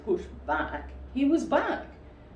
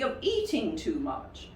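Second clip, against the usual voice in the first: stern; 2 semitones higher than usual. Acted. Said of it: "said Rabbit sternly".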